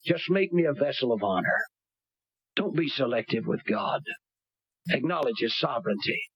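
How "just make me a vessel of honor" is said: high, rising plea to the Lord; pleading prayer. Pretend. Preacher voices the congregation's prayer, high plea. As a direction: surrender yourself in prayer. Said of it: "You ought to say".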